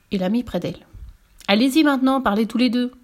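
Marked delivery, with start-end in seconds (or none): 1.5-2.9 raised, louder order; impatient command. Acted. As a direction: order them to perform. Director orders them to talk.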